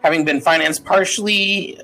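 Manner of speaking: reading a legal deed in a formal proclamation voice. Acted. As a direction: read it out like an official decree. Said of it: "I will now speak in".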